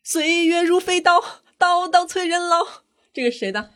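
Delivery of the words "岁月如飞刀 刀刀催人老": Ling Tengyun. Acted. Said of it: "能尽量模仿人物的方言吗".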